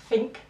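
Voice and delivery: "think" said as fink, th turned into f. Shown as a demonstration. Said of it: "think for think".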